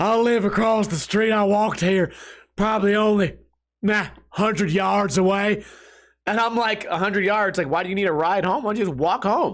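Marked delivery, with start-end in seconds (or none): 0.0-5.6 put-on character voice, strained from the throat. Retelling what a man in a bar kept telling him, in a strained put-on voice. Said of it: "Let me keep doing the voice. My throat is hurting".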